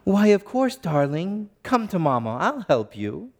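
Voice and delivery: a hint of a British accent, imitating his little girl playing mommy; gentle mock British mummy voice, as his daughter does it. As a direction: lightly mimic a child's prim British mummy, brighter on the first words. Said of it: "in perfect cadence and perfect tone and even a little hint of a British accent".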